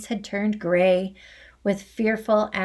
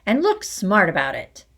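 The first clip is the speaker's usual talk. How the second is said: shouted order; 4 dB louder than usual. Acted. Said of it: "the Trunchbull shouted".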